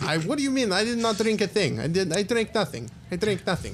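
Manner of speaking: high, flustered lab scientist; a high, cagey scientist who knows about bats; nervous scientist voice. Acted. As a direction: scientist dodging questions about his bat research.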